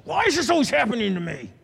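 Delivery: a believer frustrated at God, venting; frustrated outburst. Retold or imitated. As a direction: vent it, voice climbing.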